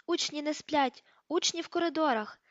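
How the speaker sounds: the caretaker hollers down the corridor; old caretaker yelling. Acted. Old caretaker Filch raising the alarm about pupils, yelling. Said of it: "волаючи".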